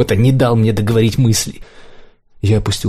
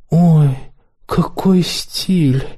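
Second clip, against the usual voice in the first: much higher, slow coquettish coo; flirtatious; 7 semitones higher, much slower than usual. A narrator's reading. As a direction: flirt with him. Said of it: "кокетничая с Торцовым".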